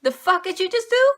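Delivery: lightly voiced appalled reader; shocked outrage. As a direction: recoil in mock shock. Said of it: "I was like".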